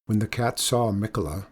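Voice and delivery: ordinary delivery, nothing marked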